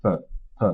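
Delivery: "P" said as a short, unstressed "puh"; "P" as a weak little "puh"; reduced vowel. Shown as a demonstration. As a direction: isolate "P" with a schwa instead of an O. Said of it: "on prononce un E".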